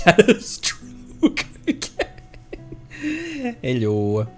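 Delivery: slow words through giggles; laughing. Real, not acted. Laughing at broken raid message.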